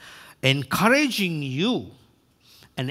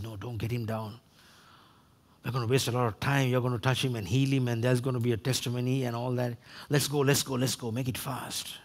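quick, low grumbling run; impatient disciples; 5 semitones lower, 5 dB quieter, faster than usual. Acted. Disciples urge Jesus not to stop, hurried low grumble. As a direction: rush it out low and under the voice.

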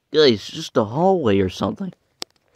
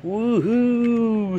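high cartoon woohoo; excited cheer; 11 semitones higher than usual. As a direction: whoop as the getaway figure. Character cheering escape.

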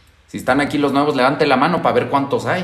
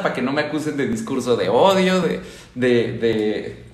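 ordinary talk, nothing marked

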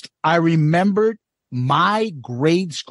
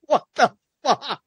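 raised, stunned question; shocked; 7 semitones higher than usual. Retold or imitated. Listener's shocked reaction to Eddie's bit. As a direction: react in disbelief, higher. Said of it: "I was like".

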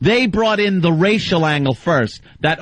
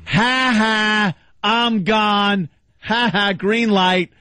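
gloating taunt; 5 semitones higher, much slower than usual. Retold or imitated.

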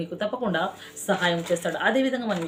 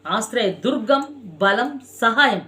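rising cry; 2 semitones higher, 4 dB louder, slower than usual. Acted. Climax of sermon refrain.

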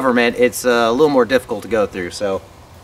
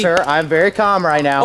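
fake calm; 5 semitones higher than usual. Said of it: "settle down, buddy".

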